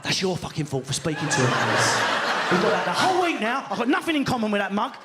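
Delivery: half-laughing mock rant, shouting in the middle; mock row. Wife blaming Chris for befriending the couple, mock angry rant. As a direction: berate your partner in a hammed-up holiday row.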